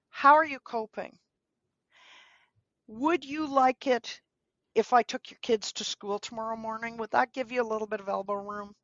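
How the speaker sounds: calm, specific, caring question; gentle offer. Shown as a demonstration. To a grieving friend, a gentle caring offer of help. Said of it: "But if instead you say".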